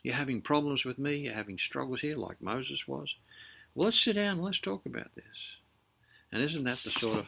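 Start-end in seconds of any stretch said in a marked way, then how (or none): 0.0-5.6 patient inviting God. Acted. God coaxing struggling Moses to talk, patient. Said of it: "he's not angry. He wants to talk things through".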